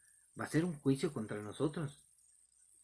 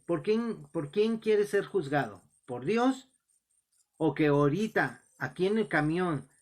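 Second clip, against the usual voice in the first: raised, insistent questioning; retold challenge; 3 semitones higher, 5 dB louder than usual. Preacher asks the heckler who should judge him, retold insistent challenge. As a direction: press the heckler for an answer, re-enacted.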